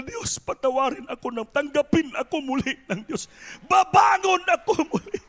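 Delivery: voiced prayer of a penitent rising to a shout; pleading prayer. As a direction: beg forgiveness then cry out resolve. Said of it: "paniniwala na".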